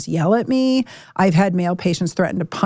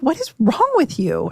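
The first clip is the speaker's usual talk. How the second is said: higher-pitched exasperated demand, pitch dropping at the end; exasperated retort; 4 semitones higher than usual. Retold or imitated. Wife to husband acting irrationally, exasperated. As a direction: imitate yourself challenging an irrational partner.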